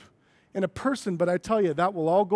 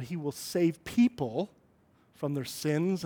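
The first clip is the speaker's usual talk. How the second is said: "save people" stressed, then "from their sins" softer; 4 semitones lower, 6 dB quieter, slower than usual. Shown as a demonstration. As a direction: lean on "save people", pause after it. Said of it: "put some different emphasis".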